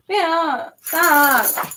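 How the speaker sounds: real exasperated scolding; scolding the dog. Real, not acted. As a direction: sharply tell the dog to stop. Scolding dog stepping on paper.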